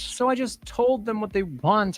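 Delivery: high-pitched, giddy, drugged-happy villain; a creepy boss floating on a blissful high; Reginald Blackburn. Acted.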